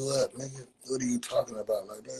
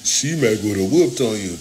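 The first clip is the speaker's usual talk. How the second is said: loud boast; 8 dB louder than usual. Real, not acted. Heated argument on stream.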